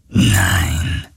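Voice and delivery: very low, slow murmur; ghostly murmur. A narrator's reading. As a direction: rumble it like a phantom. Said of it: "raunte die Geisterstimme".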